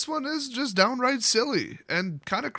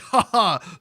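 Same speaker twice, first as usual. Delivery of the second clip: subtle laugh; 4 dB louder than usual. Retold or imitated. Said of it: "subtly laugh to myself".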